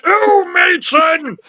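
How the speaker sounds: slow, drawn-out camp exclamation; Kenneth Williams impression. Host clowning impressions for friends, slow camp cry. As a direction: stretch it out theatrically. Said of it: "Do a Kenneth Williams".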